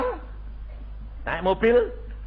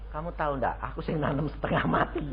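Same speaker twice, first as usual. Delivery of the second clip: grumble; 3 semitones lower, 9 dB quieter, faster than usual. Acted. Glaring member grumbling.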